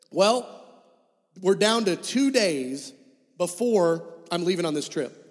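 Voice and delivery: ordinary talk, nothing marked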